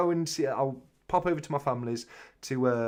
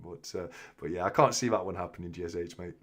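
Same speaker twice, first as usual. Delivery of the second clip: ordinary talk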